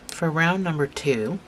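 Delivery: talking around a stitch marker held in the mouth; words muffled by a marker between the lips. Real, not acted. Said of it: "sorry, stitch marker in my mouth".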